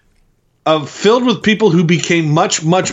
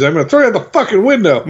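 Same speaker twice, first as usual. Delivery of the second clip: laughing quote; 6 semitones higher, faster than usual. Retold or imitated. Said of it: "and when he's".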